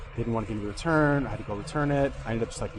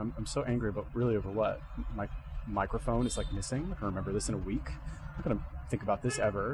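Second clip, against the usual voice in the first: quiet inner voice; 6 dB quieter than usual. Retold or imitated. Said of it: "I would think to myself".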